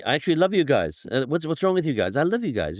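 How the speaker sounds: high, hammed-up wounded protest; playful imitation of an aggrieved ruler; plangent mock plea. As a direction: plead with mock hurt, pitched well up. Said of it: "That mixture of the plangent tones".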